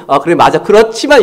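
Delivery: yes-but. Shown as a demonstration. Pastor showing his habit of adding a but, objecting. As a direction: concede then object. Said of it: "하면서".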